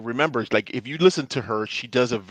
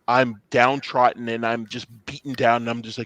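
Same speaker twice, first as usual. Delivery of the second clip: downtrodden voice. Retold or imitated. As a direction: imitate a beaten-down voice. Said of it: "she's not doing the".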